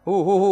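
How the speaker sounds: mock "hoo-hoo" crying; put-on sobbing noise; imitated sobbing. Shown as a demonstration. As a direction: demonstrate one style of weeping. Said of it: "cara nangis berbeda-beda".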